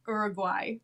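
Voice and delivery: Uruguay as said on American TV; TV coverage pronunciation. Shown as a demonstration. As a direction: pronounce Uruguay the North American broadcast way. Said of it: "that's how they pronounce it".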